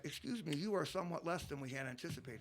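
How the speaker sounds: a hint of an overly polite heckler; mild, prim heckle with a laugh; Mormon heckler. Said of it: "my impression of a Mormon heckler".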